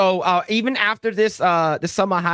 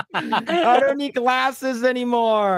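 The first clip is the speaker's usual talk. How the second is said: slow, higher, laughing through the quote; laughing repeat; 6 semitones higher, slower than usual. Retold or imitated. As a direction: drag it out while cracking up.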